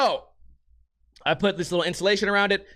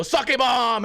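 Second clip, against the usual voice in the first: mock party cry; 5 semitones higher than usual. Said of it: "I hear one guy go".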